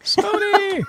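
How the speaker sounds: high, frustrated yell at the phone; exasperated shout. Real, not acted. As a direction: call out in exasperation. Phone won't connect, calling out.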